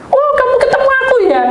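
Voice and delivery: high, quick, loud exclamation; delighted friend. Retold or imitated. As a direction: burst out happily. (teman berseru gembira)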